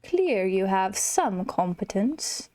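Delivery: a hint of a slow, smug lion king; lightly voiced Scar. Gamer reading Scar's lines to the player, mildly smug. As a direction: drawl it out as a lazy, haughty villain.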